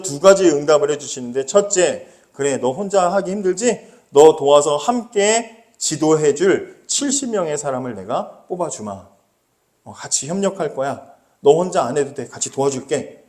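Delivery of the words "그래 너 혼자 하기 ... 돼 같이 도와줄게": gentle reassurance. Retold or imitated. God voiced reassuring Moses.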